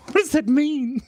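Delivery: high, loud question through laughter; laughing disbelief. Real, not acted. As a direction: squeal it out, helpless with laughter. Cracking up at viewer's request.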